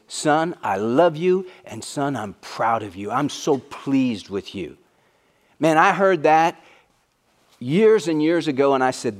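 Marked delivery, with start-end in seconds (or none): 0.1-4.8 slow and tender, softening toward the end; tender father's voice. Acted. Heavenly Father telling Jesus he is proud, tender and slow. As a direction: speak to a beloved son gently. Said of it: "But he says".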